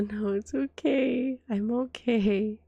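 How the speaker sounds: slow, gentle reassurance; reassuring. Real, not acted. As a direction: soothe them, nice and slow. Reassuring someone worried about her.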